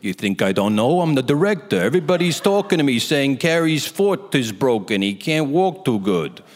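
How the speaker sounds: put-on exasperated director voice; mock-indignant director, slowing at the end; Rob Reiner. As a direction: berate him in a hammed-up impression. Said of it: "He goes".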